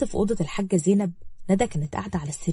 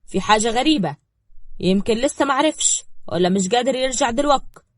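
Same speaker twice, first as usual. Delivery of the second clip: raised, mildly angry voice; 4 semitones higher, 5 dB louder than usual. Acted. Son airing his suspicions to his father, mildly angry. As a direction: press the doubts with restrained anger. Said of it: "وقال بغضب".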